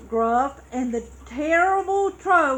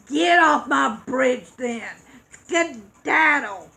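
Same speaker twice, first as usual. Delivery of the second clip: loud gruff troll shout, slowing on the last word; 4 dB louder than usual. Acted. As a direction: bark it off the bridge like a cranky troll. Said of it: "he shouted".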